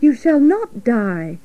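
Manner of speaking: firm, matter-of-fact reassurance; understated, no-nonsense promise; brisk. Acted. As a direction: state it decisively. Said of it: "said Charlotte briskly".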